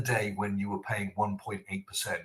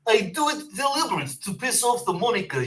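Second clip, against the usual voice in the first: a hammed-up Russian accent, quick and high; mock Russian accent; 9 semitones higher, faster than usual. Host jokingly shows off the Russian-sounding accent. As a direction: mimic a Russian speaker, fast and a little mocking. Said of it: "that accent was not Polish".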